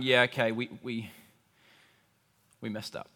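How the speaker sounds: soft, sheepish, trailing off; a hushed, guilty confession; sheepish admission. Retold or imitated. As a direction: own up quietly, a little embarrassed. People admitting fault to God.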